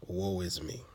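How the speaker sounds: soft, hushed, sorry-for-myself complaint; a quiet woe-is-me moan; mock self-pity. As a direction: mutter it like everything's against you. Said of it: "we feel that".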